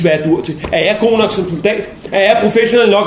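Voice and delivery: usual speaking voice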